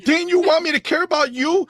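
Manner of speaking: high, hurt-sounding mock plea; high puppet voice, whiny question; doll voice as Asha. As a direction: play the wounded doll asking why. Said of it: "I'm playing with imaginary dolls".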